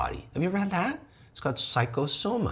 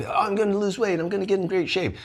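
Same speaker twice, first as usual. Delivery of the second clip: mock resolution voice; 9 semitones higher than usual. Mock New Year's resolution voice.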